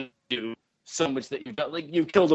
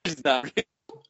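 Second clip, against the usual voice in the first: stoned; slower than usual. Acted. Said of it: "you are really stoned right now".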